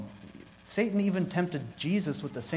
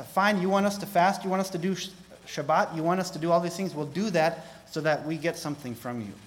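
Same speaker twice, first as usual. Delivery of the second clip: mock-exasperated compliance, higher and louder; grudging bargaining; 5 semitones higher, 5 dB louder than usual. Preacher mimics Israel manipulating God, mock-exasperated. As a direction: voice a put-upon people striking a deal.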